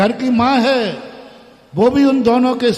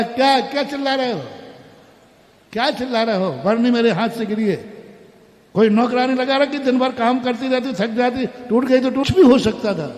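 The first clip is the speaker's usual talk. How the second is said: put-on scolding old mother; 3 semitones higher than usual. Mother confronts, takes blame.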